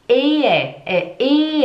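Ehe with a long, drawn-out E; slow teacher's demo of Ehe, E held long. Shown as a demonstration. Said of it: "é um E longo".

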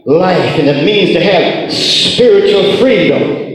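ringing, rhythmic revival preaching; full-force preaching. Real, not acted. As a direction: preach it out with conviction.

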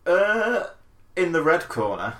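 lightly voiced boxing announcer; hint of a hammed-up ring introduction; mock ring announcer.

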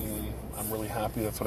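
words stretched by a yawn. Real, not acted. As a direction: talk through a tired yawn. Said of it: "Sorry, I'm yawning".

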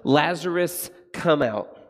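loud commanding call; Jesus at the tomb calling Lazarus out, loud and commanding; cry of authority. Acted. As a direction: call the dead man out with power. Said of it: "calls out in a cry of authority and power".

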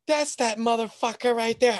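a hammed-up tipsy girl pointing him out; imitated drunk girls. Drunk girls spot the guy on ground, mock high voice. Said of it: "they were just like".

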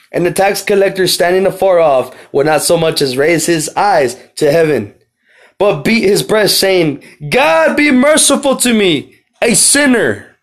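high, loud cry to God; exclamation. Shown as a demonstration. Preacher reading the tax collector's plea to the congregation, exclaimed. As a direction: read it as a desperate, building outcry. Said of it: "He says with an exclamation mark".

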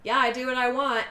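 brazen, unbothered retort; gives no fucks. Retold or imitated. Patricia answers back at the scene, brazenly unbothered. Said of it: "Patricia gives no fucks".

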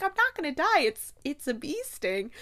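exasperated protest. Retold or imitated. Voicing Kate's protest at Anthony.

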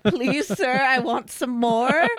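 slow, lightly voiced begging orphan; pleading orphan. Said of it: "like, Oliver Twisting it?".

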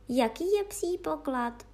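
eager question. Acted. The fairies asking the old fairy eagerly, eager question. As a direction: lean in, hungry to know. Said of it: "ptali se rusalky dychtivě".

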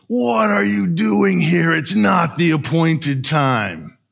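slow, mock demonic shout; a hammed-up yell from the possessed man. Possessed man yells at Jesus, slow mock shout. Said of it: "and yells at Jesus".

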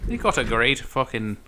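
put-on Irish pub brogue; Irish accent. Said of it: "Okay, so that's your accent".

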